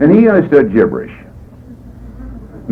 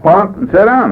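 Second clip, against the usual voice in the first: put-on raised, higher bark of a tough old-timer; gruff sponsor shouting at newcomer; mock stern order; 10 semitones higher, slower than usual. Sponsor barking order at speaker.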